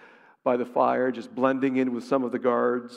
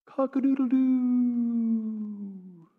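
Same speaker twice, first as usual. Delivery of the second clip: rooster crow; 8 semitones higher, much slower than usual. Pretend. Rooster crows for the denial.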